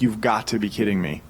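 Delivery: low, exasperated disbelief; understated, fed-up disbelief; retold frustration. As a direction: let mild frustration sink the voice. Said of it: "getting so frustrated".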